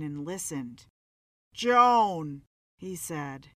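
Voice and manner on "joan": calling out. A narrator's reading. Calling out in shower.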